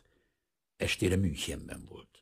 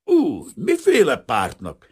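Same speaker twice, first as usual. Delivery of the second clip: slow, louder growl; growled question; 9 semitones higher, 9 dB louder, slower than usual. A narrator's reading. Official growling at the frightened refugee. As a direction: snap at him, suspicious. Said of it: "rámordult".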